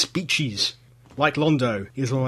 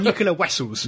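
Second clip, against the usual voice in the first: put-on Chekhov's Russian accent; 3 semitones higher than usual. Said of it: "there's Chekhov saying".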